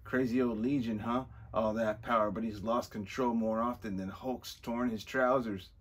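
loud, put-on Scottish accent; heartily attempted Scottish brogue. Villain scoffing at Legion's lost control, Scottish accent. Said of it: "We're doing the Scottish accent again".

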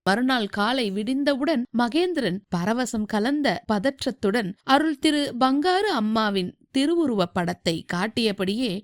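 ordinary delivery

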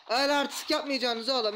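loud mocking put-down; gloating taunt. Real, not acted. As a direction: scold them like a cocky winner. Taunting beaten enemies.

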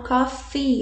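coffee ending clearly on an ee sound; coffee with final E. Shown as a demonstration. Teacher stressing the ending of coffee to students. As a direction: make sure coffee ends in a clear ee. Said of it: "lembre de colocar esse E no final".

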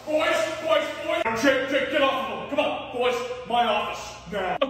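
teacher yelling to stop a schoolyard fight. Acted.

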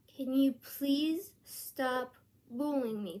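slow, firm, deliberate request; stern voice. Shown as a demonstration. Vlogger showing how to confront a bully, stern. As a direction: say it sternly, each word drawn out without yelling. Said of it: "ask them in a stern voice like this".

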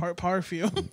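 pirate drawl on "Par-, perfume"; pirate accent. Pretend. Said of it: "Like how a pirate says it?".

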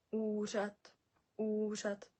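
уряд slowly with "uuu" held at the start; long first u. Shown as a demonstration. Teacher modelling for learners, уряд with long first "u". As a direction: stretch the first vowel of Уряд. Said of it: "на перше у".

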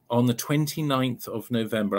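measured, spelled-out date; unhurried, clearly spaced announcement; slow and deliberate. Real, not acted. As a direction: give the date carefully for note-takers. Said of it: "I'll say it slowly".

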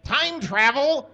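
high, loud, slow astonished exclaim. Acted. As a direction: gasp it out in disbelief as Ron. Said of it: "exclaimed Ron".

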